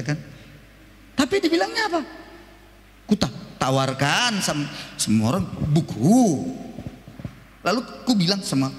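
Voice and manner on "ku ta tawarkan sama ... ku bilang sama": stuttering salesman. Retold or imitated. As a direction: repeat the first sound before the words.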